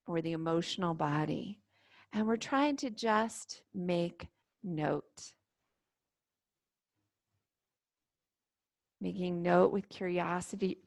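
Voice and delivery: calm, unhurried meditation guide with long pauses; guided meditation. Real, not acted. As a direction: gently lead them into stillness and breath. Leads guided standing meditation.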